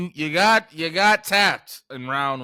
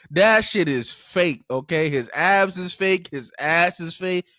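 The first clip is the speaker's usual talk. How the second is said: louder, slow mock rant; mock outrage; 5 dB louder than usual. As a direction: drag each word out, indignant. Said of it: "now everybody's like".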